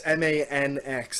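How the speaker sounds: "M A N X" letter by letter, slowly; spelled out. Shown as a demonstration. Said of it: "we're Manx".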